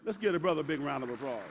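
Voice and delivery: loud, high crowd hype; calling out. Real, not acted. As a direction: whip up the applause. Roast speaker hyping the crowd.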